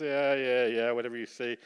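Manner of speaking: mildly dismissive yeah-yeah, half-hearted; doubtful brush-off. Retold or imitated. Preacher brushing off a pastor's encouragement, doubtful. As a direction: shrug it off without any faith. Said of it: "that's how big my faith was".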